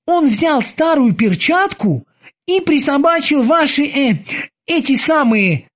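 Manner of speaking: high, eager sailor's voice; squeaky dutiful boatswain. Acted. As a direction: report to the captain like a keen young sailor. Boatswain Kiki tells.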